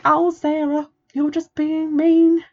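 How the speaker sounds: high, whiny mock protest; sing-song teasing whine; mocking whiny listener. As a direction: parody of a critic defending the book. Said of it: "you've been like".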